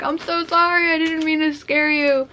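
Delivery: high-pitched girl's apology, lightly mocked; imitating amused apology. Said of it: "she was laughing at me".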